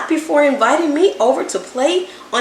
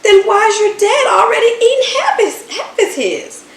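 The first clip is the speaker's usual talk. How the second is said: loud, fast, laughing ask; amused question; 9 semitones higher, 4 dB louder than usual. A narrator's reading. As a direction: laugh it out as you point at dad. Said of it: "Jeremy asked".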